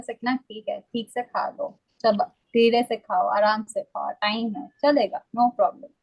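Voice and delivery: mildly reassuring, unhurried self-talk; kind inner voice. Retold or imitated. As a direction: gently talk yourself down, no rush. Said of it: "पर अगर मेरा आवाज बोलता है".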